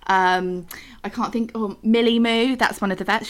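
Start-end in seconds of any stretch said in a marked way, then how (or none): 1.0-1.8 whispered aside. Real, not acted. Searching for a name, aside.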